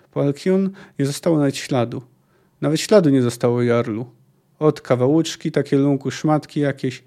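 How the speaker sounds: dramatic read-aloud of a sea tale; story narration. A narrator's reading. Sailor recounts a storm to his jarl, story narration. Reads a long quote from a novel.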